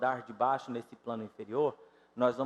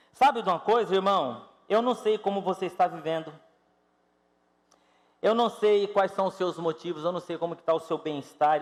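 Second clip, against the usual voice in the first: loud, driving sermon voice; loud, earnest pulpit delivery; forceful preaching; 3 semitones higher, 6 dB louder than usual. Real, not acted. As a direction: press the point on the congregation.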